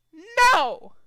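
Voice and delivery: high, loud No; snap. A narrator's reading. Trixie refusing Derpy, high and loud. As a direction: bark it out.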